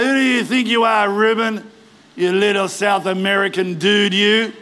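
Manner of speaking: mock-sneering taunt of a giant; hammed-up villain's jeer; sneering contempt. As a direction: belittle the little challenger with scorn. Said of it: "Sneering in contempt".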